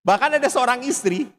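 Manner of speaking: fiery preaching. Acted. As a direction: rouse the congregation with passion. Khotbah berapi-api. (berkhotbah dengan lantang dan berapi-api)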